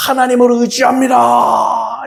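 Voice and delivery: acted prayerful proclamation; fluent prayer. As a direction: declaim it like a showy prayer. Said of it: "유창하게 기도하고 있어요".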